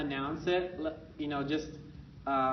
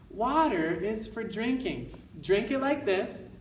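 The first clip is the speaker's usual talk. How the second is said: slow teaching voice; 4 semitones higher, slower than usual. Shown as a demonstration. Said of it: "parent says".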